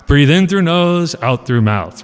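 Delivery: slow, measured coaching of the breath; slow breathing instruction. Retold or imitated. Mentor coaches Daniel's breathing, slow and measured. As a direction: guide the breath like a calm master.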